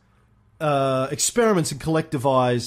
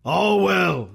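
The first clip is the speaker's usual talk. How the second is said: Stalin impression; 4 semitones higher than usual. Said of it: "Stalin replied".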